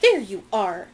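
a mild exclaimed greeting; exclaiming. Acted. Madame Lockton spotting the girls on the dock, exclaiming. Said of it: "exclaimed Madame Lockton".

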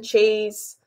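chewing between words; messy loud eating. Real, not acted. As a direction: speak through a mouthful of burger. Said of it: "I'm eating now".

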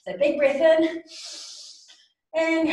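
high, loud call to breathe in; teacher hyping the volcano breath; big excited cue. Shown as a demonstration. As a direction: pump the kids up for the breath. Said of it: "volcano breath".

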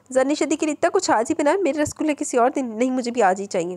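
high, insistent demand; insisting. Acted. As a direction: whine for it like a spoilt child. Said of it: "वो ज़िद करने लगी".

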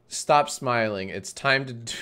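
intro line cracking into a laugh; breaking into laughter. Real, not acted. Streamer recording a cringy intro, breaking up laughing.

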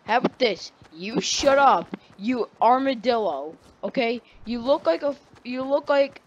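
mildly heated retold comeback; lightly acted anger, slowing on the insult; pissed-off comeback. Kid finally insults the teasing classmate back, mildly pissed off. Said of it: "when I got really pissed off".

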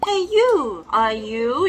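high playful call. Pretend.

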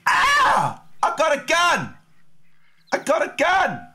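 squealed, panicky mock shout; high-pitched yell. Streamer suddenly finding he has a gun, high-pitched yell.

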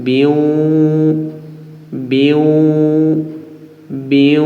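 "বিউ" with a doubled, held w; "বিউ" drawn out on the glide; with tashdid. Shown as a demonstration. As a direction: lean into the waw of "বিউ". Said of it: "তাজদিদের সঙ্গে উচ্চারণ হবে".

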